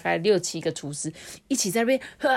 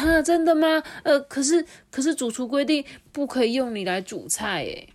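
surprised cook; 7 semitones higher than usual. Acted. Cook surprised by the pot's offer. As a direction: gasp at the offer.

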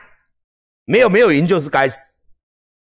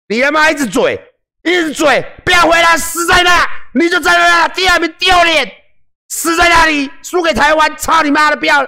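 high, shouting parody of trolls; imitating shrieking netizens, much higher and louder; mock screaming curses; 12 semitones higher, 4 dB louder than usual. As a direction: scream it like a hysterical commenter.

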